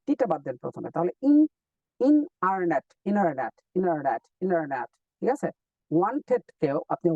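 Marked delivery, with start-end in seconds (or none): 1.3-4.9 ইনারনেট repeated slowly without the t; dropped t. Shown as a demonstration. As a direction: drill ইনারনেট slowly, no t after n. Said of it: "ইন্টারনেট থেকে আপনি কি বাদ দিবেন".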